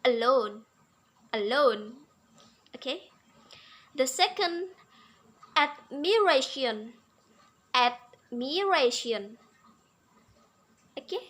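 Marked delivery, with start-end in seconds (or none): 0.0-1.9 "alone" with weight on the second syllable; stress demo. Shown as a demonstration. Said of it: "So the intonation is". 5.6-9.4 "admiration" drawn out syllable by syllable; slow model of the rhythm in "admiration"; stress demo. Shown as a demonstration. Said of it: "There is rhythm in".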